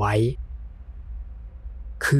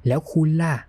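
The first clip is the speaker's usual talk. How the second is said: bright, raised friendly greeting; open and friendly; 5 semitones higher, much slower than usual. A narrator's reading. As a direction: greet a stranger warmly. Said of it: "ถึงเขาจะพูดด้วยเสียงที่เป็นมิตร".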